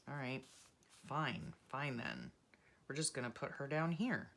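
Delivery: normal talking voice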